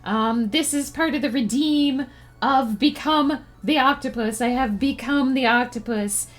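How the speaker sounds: gurgly sea creature voice; octopus voice. Pretend. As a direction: talk like a goofy octopus. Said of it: "This is my octopus voice".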